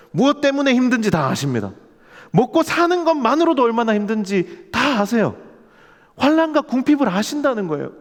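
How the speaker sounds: high, loud, impassioned sermon voice; preaching at full force. Acted.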